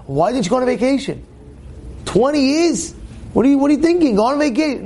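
high, disbelieving questions; can't believe he never took a break; mock-astonished retelling; incredulous question. Speaker retells his incredulous question.

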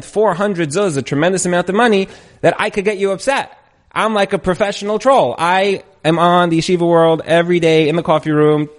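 can't believe it didn't work; exasperated troll. Acted.

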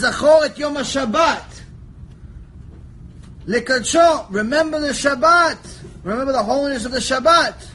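loud, high declaiming; ringing sermon declamation; proclaiming the commandment. Acted. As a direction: proclaim it to the angels.

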